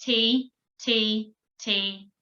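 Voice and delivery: long held T syllables, fading; long drawn-out Ts, dying away; long sounds. Shown as a demonstration. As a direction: sustain each T and let it fade. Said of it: "those long sounds".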